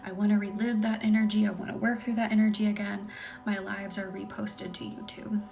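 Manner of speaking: hushed, breathy bedtime whisper-talk. Real, not acted. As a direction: lull the viewers toward sleep. ASMR live, soft whispery talk.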